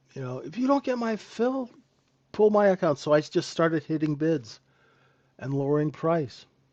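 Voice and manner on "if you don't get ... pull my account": very high shriek climbing toward the end. Retelling how the man on the phone screamed at him, retelling a scream. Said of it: "he started screaming at me".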